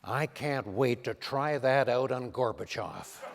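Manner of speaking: hushed, folksy Reagan impression; Ronald Reagan. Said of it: "says to me".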